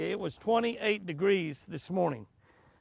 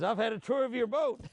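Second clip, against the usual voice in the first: fish voice; 8 semitones higher than usual. Pretend. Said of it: "Fish says".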